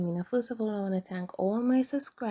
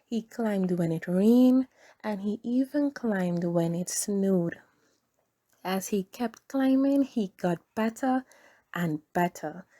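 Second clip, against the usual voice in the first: gentle storybook narration for little ones; reading to children. A narrator's reading. Reads a children's story aloud.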